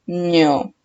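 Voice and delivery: "Ño" said alone as one drawn-out syllable; stressed syllable alone. Shown as a demonstration. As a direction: isolate "Ño" and hold its vowel. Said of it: "la sílaba con mayor fuerza de voz".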